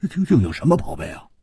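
high, teasing amazement through laughter; laugh, then marvel in a high, stuttering rush; tickled, incredulous ribbing. A narrator's reading. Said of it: "笑着说".

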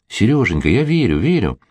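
lightly mimicking her sweet, unconvinced reply; mock imitation of Ася. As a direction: parody her half-hearted answer. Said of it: "А она". (слегка передразнивая Асю)

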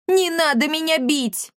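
high pleading cat voice; scared begging. Acted. Frightened cat begs not to be beaten, high. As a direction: beg not to be hit.

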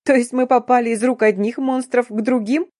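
high, rising incredulous outburst; hysterical. A narrator's reading. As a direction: sum it up on the edge of hysteria. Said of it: "истерически расхохотавшись".

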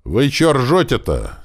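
slow, baffled question; ask, not getting the joke; puzzled. A narrator's reading. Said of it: "недоумённо спросил я".

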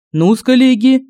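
cheerful, bright greeting; жизнерадостно. A narrator's reading. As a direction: rub hands and greet them gladly. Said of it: "жизнерадостно сказал Семён". (жизнерадостно, с подъёмом)

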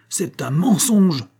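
high, drawn-out angry cry; sailor's bellow. A narrator's reading. Sailor calling the idiot a liar, bellowing. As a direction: throw out the accusation, high and slow. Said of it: "hurla le marin".

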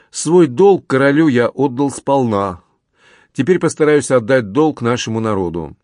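a touch of solemn pathos; lofty pathos. A narrator's reading. Officer telling his uncle of his duty, with restrained pathos. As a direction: declare it as a mildly lofty personal creed. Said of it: "впал в самую что ни на есть патетику".

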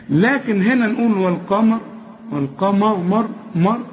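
والقمر with a thin, light mim. Shown as a demonstration. Teacher showing a light mim in والقمر. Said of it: "رقق الميم دي أرجوك".

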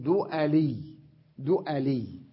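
دؤلي said "du-a-LEE", a after the glottal stop; fatha on the hamza. Shown as a demonstration. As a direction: say دؤلي slowly as du'alī. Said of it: "نخفف الهمزة التي هي عين الكلمة بالفتحة".

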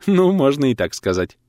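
a touch of coy embarrassment; bashful titter. A narrator's reading. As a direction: answer with a shy little lift in the voice. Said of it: "стеснительно хихикнула врачиха".

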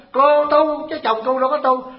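slow, high, pointed retort; retold scolding. Monk retelling how he scolded the woman, slow and pointed. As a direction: lay the rebuke down slowly and firmly.

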